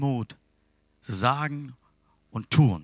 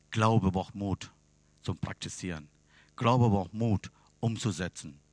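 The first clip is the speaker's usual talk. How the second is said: slow emphatic; 5 semitones lower than usual. Real, not acted. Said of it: "repeated key phrase, slowed".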